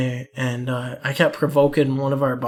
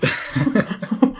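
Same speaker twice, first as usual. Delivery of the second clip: voiceless, shaky mock panting; hammed-up breathless fright; imitated panicked breathing; 4 semitones higher, 5 dB quieter than usual. Terrified kid after the prank, mock panicked panting. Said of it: "And the kid's like".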